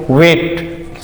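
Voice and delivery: वेट with a slightly long "ए" sound; long vowel. Shown as a demonstration. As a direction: hold the "ए" in वेट a little. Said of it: "sound क्या थोड़ा long है". (वेट में "ए" को थोड़ा लंबा बोलें)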